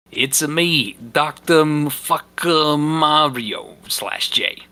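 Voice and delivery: lightly voiced Mario, slowing down at the end; a hint of Italian plumber cheer; Mario impression. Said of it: "a man with a mustache and a stethoscope".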